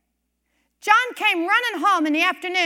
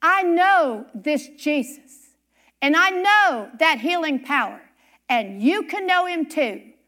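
slow preaching; slower than usual. Acted. Preacher's slow testimony close.

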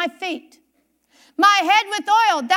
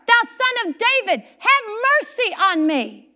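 raised, higher-pitched plea for mercy; crying out; 4 semitones higher than usual. Acted. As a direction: cry out, not a little whimper. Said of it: "Not a little whimper. He cried out".

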